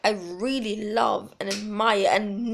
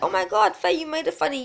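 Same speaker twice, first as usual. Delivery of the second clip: much higher, delighted fan gush; gushing friend; 6 semitones higher, faster than usual. Retold or imitated. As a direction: squeal the praise like an impressed friend. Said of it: "they'll be like".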